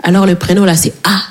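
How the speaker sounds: low, unhurried spelling-out; lightly voiced father spelling slowly; dad at registry. Le père à l'état civil. (père qui épelle, voix grave et lente)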